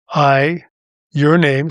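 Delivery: measured, pausing between phrases; slow, phrase by phrase. Shown as a demonstration. Host giving listeners an affirmation to repeat, slowly. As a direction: lead a repeat-after-me affirmation. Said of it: "I'll say it slowly, phrase by phrase".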